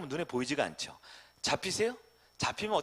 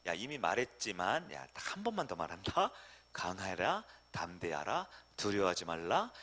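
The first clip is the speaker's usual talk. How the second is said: God's voice; 6 semitones lower, 3 dB quieter than usual. Acted. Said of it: "그러니까".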